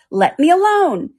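high, loud, drawn-out protest; indignant. A narrator's reading. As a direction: push them away with an indignant cry.

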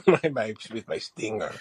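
lowish mock Spanish-Cholo accent; Spanish drifting into Cholo. Cartoon bee boasting, lowish Spanish-Cholo accent. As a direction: let the Spanish accent slip toward Cholo. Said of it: "getting close to the Cholo".

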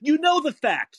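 high, slow, hammered accusation; real angry insistence. Real, not acted. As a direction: hammer each word at the caller. Heated argument with the caller.

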